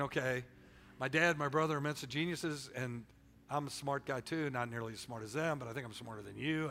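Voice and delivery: soft, low inner grumble; muttering to himself; inner thought. Retold or imitated. Teen quarterback thinking about coach, soft grumble. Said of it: "I'm thinking".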